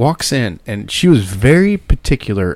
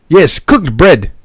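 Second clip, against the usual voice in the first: Martin's reply; 5 semitones higher, 4 dB louder, much slower than usual. Retold or imitated. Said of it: "he goes".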